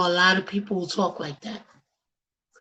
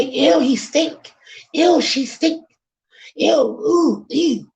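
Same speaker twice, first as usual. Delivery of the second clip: higher, mock-disgusted squeal of ew; 5 semitones higher, slower than usual. Host mimics people recoiling from the homeless with disgust. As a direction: turn your nose up at the street person. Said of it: "If you don't say".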